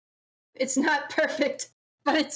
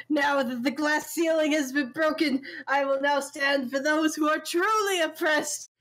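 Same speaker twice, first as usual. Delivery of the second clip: lightly hammed-up grand declaration, drawing out the last words; mock villain speech; 2 semitones higher than usual. Friend acts out a Batman villain's speech as a joke, mock-grand. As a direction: declaim it like a cartoon villain, mildly.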